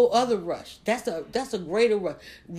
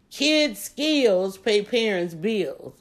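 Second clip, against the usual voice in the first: slow emphatic quote; much slower than usual. Shown as a demonstration. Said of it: "quoting a memorable kid's saying".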